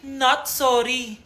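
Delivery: sarcastic not sorry. Acted. New girl taunting the mean girl, smug and slow. Fake apology then retracted.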